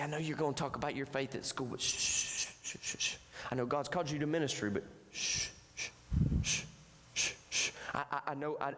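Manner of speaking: hushing whisper of the enemy. Acted. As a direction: shush him like a sly tempter. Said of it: "and he comes and he says".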